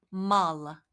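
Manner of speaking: мало drawn out very slowly; very slow demo. Shown as a demonstration. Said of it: "라고 합니다".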